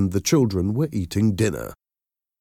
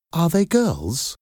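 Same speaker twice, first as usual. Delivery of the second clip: slow, higher warm question; warm caller; 10 semitones higher than usual. A narrator's reading. Caller checking on the children, warm. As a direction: ask hopefully in a warm, lifted voice. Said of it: "This caller's voice was warm".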